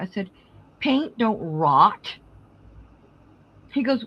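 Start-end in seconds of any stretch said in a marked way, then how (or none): 0.8-2.2 slow exasperated correction. Retold or imitated. Mom correcting son, exasperated.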